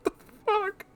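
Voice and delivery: very high squeaky laugh into a squeak; disbelieving laugh. Real, not acted. Reader baffled by the fanfic, high squeaky laugh.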